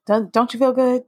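hushed whisper. Real, not acted. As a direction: whisper it gently after the breathing. After the breathing exercise.

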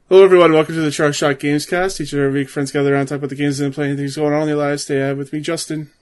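upbeat podcast host opening; show intro. Acted. Host welcoming listeners to the weekly gamescast, upbeat.

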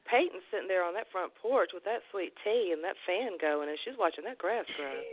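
teasing imitation of a Southern accent. Host teasing Peyton about her Atlanta roots, imitated Southern accent. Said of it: "Peyton's is deliciously strong".

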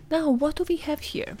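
high, sing-song auntie voice; toddler party auntie. Acted. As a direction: coo like an aunt at a kid's party. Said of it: "Why sound like an auntie at, like, a toddler's birthday party".

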